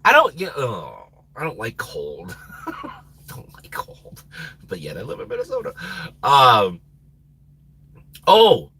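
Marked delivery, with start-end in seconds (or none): 2.7-4.2 soft unvoiced aside; whispered repeat. Real, not acted. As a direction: whisper it to yourself.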